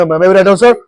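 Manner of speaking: a hint of angry demand; teacher mock-demanding in an angry way. Shown as a demonstration. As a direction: say it like a cross command, lightly. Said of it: "ना कि ऐसे गुस्सा में".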